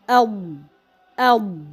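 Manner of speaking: "al" with a full, echoing heavy sound; tafkhim echo. Shown as a demonstration. Teacher letting learners hear the echo, heavy tafkhim sound. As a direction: fill the mouth on "al", narrowed throat. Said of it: "you feel that there is an echo".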